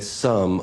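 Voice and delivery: "some" set apart with a pause after it; stress on some. Real, not acted. Questioner underlining a word for the panel, stress on "some". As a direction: lean on "some", then let it hang. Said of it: "underline the word some ten times".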